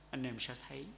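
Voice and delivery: ordinary talk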